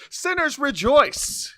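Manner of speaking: a hint of a demon, slow; lightly voiced radio demon; demonic voice. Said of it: "their incredible demonic voice".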